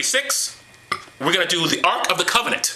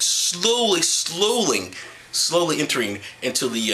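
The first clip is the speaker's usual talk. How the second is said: slowly; slower than usual. Pretend. Acting out gradual slide into insanity.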